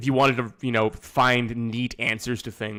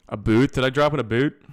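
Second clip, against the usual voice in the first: mock Nova Scotian accent; 5 dB louder than usual. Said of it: "it's like a Nova Scotian".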